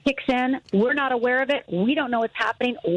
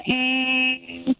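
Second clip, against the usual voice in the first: dying groan; 2 semitones higher than usual. Retold or imitated. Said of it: "all I hear is".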